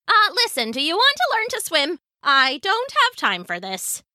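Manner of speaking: high, exasperated sailor voice; pirate losing patience with a pedant; impatient pirate woman. A narrator's reading. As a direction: press the question impatiently.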